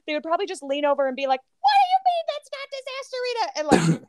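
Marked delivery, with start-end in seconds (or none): 1.6-3.9 high, loud disbelieving whisper-shout; baffled question. Retold or imitated. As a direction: act shocked and confused. Friend leaning over, confused.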